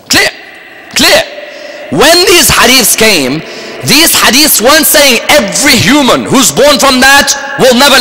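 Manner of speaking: high-pitched, forceful explaining; impassioned preaching. Acted. Preacher setting the congregation straight on the context, impassioned. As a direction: drive the point home with rising intensity.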